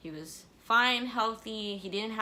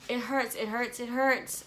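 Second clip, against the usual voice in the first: retold screaming; 4 semitones higher, 5 dB louder, slower than usual. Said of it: "And I was screaming".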